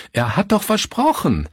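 crying out the broken promise; desperate high cry. A narrator's reading. Pastor Fritz from the stairs, a desperate high cry. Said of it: "rief Pastor Fritz".

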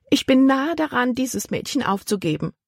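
höhere, vornehme ältere Tante. A narrator's reading. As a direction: eine besorgte Dame der Gesellschaft, hoch gesprochen. Tante Vi spricht. (Tante Vi klagt beim Kapitän, mit höherer Stimme)

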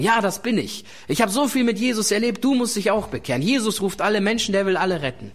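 imagined keen testimony; eager confession. Acted. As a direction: declare it openly, as if urging someone along. Imagined bold confession of faith.

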